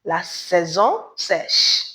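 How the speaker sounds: "La saison sèche" said slowly with a falling end; patient teacher model of "La saison sèche"; slow French model. Shown as a demonstration.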